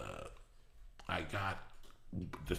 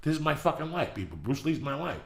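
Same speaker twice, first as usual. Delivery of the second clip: getting emotional; 5 semitones higher than usual. Real, not acted. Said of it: "I'm getting emotional".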